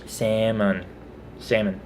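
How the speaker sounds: "Salmon" as "SAM-un"; silent L. Shown as a demonstration. Showing viewers how she grew up saying it, "Salmon" without L. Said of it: "not pronouncing the L".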